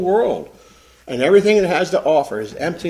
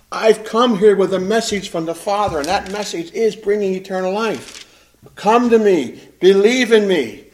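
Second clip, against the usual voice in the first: loud, raised call; crying out to the crowd; 5 semitones higher, 4 dB louder than usual. Acted. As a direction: call the crowd to come and believe. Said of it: "He's crying out to this crowd again".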